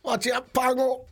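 high, slow teasing call; jokey warning to a mate; playful warning. Acted. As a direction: warn him in jest, drawn out.

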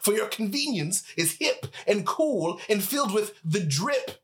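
put-on grumpy old geezer scolding youngsters; old prospector. Old-timer scolding the youths.

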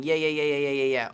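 imitated New York Queens accent. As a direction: rattle them off in a Queens accent. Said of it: "the Queen's accent. I found myself after the movie going".

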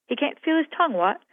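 high-pitched, loud mocking old cook; old cook Mary. A narrator's reading. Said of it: "in the voice of our old cook".

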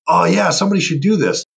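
high, breezy voice of someone passing the buck; a high, careless voice of someone who won't do it themselves; mock lazy bystander. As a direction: toss it off lightly, high and offhand. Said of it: "there's lots of people that go".

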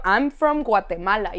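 put-on slow English in a heavy Guatemalan accent; marked Guatemalan accent. Roommate telling people where she's from, heavy Guatemalan accent. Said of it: "tenía un acento como muy marcado".

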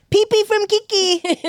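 slow squeaky singsong; silly high voice. Pretend. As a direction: play it dumb and high. Silly mispronouncing game.

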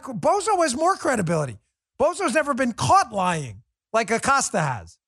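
rant, worked up and incredulous; heated rant. Real, not acted. Heated rant about Acosta.

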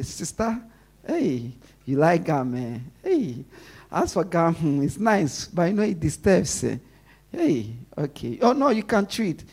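a tender, tactful nudge to a sister; gentle coaxing. Shown as a demonstration. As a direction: ease her off the gum gently. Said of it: "I have to say it like that".

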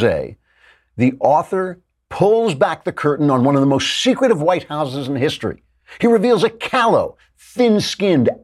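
mock-ominous exposé reading; dramatic book-blurb read. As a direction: read it like a breathless book promo.

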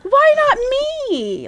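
high, loud laughing cry; high, loud laughing protest; laughing shout. Retold or imitated. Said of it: "And I'm like".

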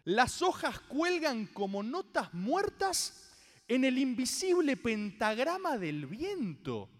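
slow, weighty poetic recitation; dramatic comic reading. Acted. Proving his point from a random page, slow dramatic recitation. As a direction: linger on each image.

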